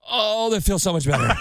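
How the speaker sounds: high, laughing sigh of relief. Retold or imitated. Laughing with relief after the nail finally drains. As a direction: laugh it out as the pain lifts.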